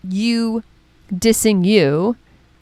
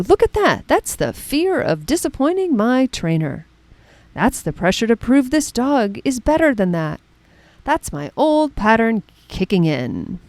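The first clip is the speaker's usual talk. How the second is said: dog show commentator; 2 semitones higher than usual. Retold or imitated. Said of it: "Westminster commentator".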